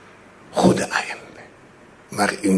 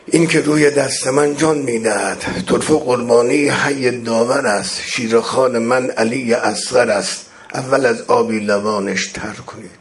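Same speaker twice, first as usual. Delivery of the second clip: elegy recitation. Acted. Preacher mourning the martyred infant, chanted elegy. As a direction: mourn the infant in measured verse.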